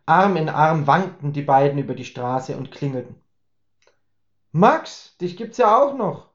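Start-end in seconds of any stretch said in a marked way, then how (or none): 4.5-6.3 higher, teasing greeting; amused Laura. Acted. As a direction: greet him with a smirk. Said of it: "schmunzelte Laura". (Laura schmunzelt, höher und neckend)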